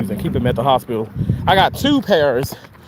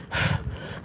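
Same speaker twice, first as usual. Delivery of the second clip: huffing and puffing; 10 dB quieter than usual. Real, not acted. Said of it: "Sorry for the huffing and puffing".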